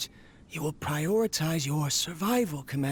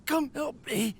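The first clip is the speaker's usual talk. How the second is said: heart attack; 9 semitones higher, 4 dB louder than usual. Acted. Heart attack while working.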